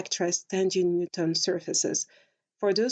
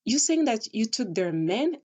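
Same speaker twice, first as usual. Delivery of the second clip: confused questioning. Retold or imitated. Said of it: "So I was confused, like".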